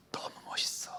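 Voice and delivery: whispered admiringly; whispered praise. Retold or imitated. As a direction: breathe the compliment in a whisper. Teacher praises a sullen student.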